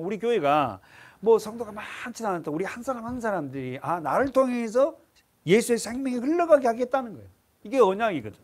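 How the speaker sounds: ordinary delivery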